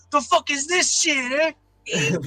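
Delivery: put-on overdone Los Angeles street accent. Imagining walking into a teacher's office, imitating a cholo. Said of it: "Fucking cholo".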